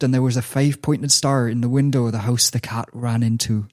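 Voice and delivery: put-on lightly done West Country accent; a hint of a Bristolian burr telling a story. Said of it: "I'll do it in the, the West Country accent".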